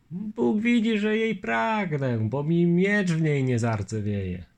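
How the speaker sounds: a hint of the polite Lithuanian; Litwin's voice. Longinus asking the lieutenant his name, lightly voiced.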